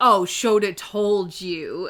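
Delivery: acted mocking delivery. Quoting a rude character's line from the story: imitating a mocking tone. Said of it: "in a mocking tone while scowling".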